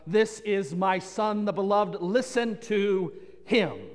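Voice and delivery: slow, solemn divine pronouncement; voice from the cloud. Retold or imitated. Preacher voicing God from the cloud, slow and solemn. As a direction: let each word land slowly, with weight. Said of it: "a voice speaks forth from the cloud".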